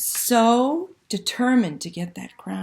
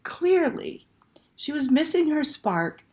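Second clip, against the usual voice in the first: put-on lively read-aloud to children; storyteller voice for kids; story narration. A narrator's reading. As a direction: tell it like a bedtime picture book, full of suspense. Reads picture book aloud.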